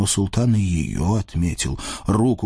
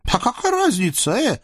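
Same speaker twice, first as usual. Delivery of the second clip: lecherous sultan; 13 semitones higher than usual. Acted. Sultan leers at the captive women, high and gloating. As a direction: purr over the captives like a greedy sultan.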